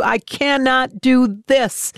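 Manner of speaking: high, slow, voice cracking in despair; breaking plea. Retold or imitated. Guttural wail come out.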